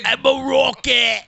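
high, drawn-out mock British shout. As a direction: shout it in a put-on British punk voice. Mock British punk voice continues.

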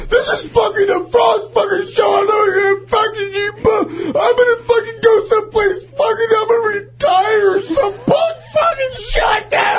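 shrieking, high, crying tantrum; a hammed-up impression of the angry friend quitting the show; ranting impression. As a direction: scream the rant like a hysterical man-child. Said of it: "he's like".

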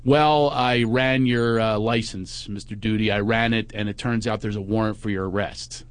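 lightly voiced officer breaking bad news; deadpan cop. Cop returning to tell the friend of a warrant, deadpan.

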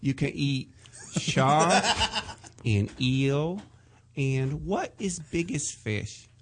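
halting Korean-accented English, broken by pauses; lightly put-on Korean accent of an acupuncturist; Korean accent impression. Shown as a demonstration. Doing Doctor Kim's voice on request, halting Korean accent. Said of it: "do the voice for Michael Yo".

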